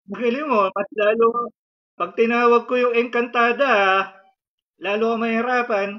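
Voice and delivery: loud, forceful command to the spirit; forceful shout. Real, not acted. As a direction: bark it out to drive the spirit away. Healer escalates threat to spirit.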